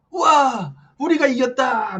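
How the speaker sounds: high, loud imitation of a jubilant crowd; hammed-up shout of triumph; mock victory cheer. Imitating rally supporters who love to claim victory, mock cheering. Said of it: "좋아하잖아".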